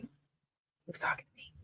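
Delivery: soft, slow whisper. Real, not acted. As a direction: drop to a slow breathy hush. Hushed aside about her dad.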